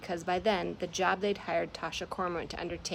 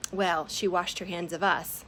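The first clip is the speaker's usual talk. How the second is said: louder bitter snarl; 5 dB louder than usual. Acted. Moth bitter about the captain, louder snarl. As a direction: spit it out bitterly. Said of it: "Moth snarled".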